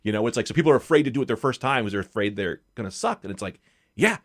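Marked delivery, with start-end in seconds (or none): none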